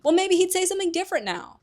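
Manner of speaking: high, loud indignant yell. Retold or imitated. Arguing in an empty classroom, a high loud yell. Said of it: "They're, like, yelling".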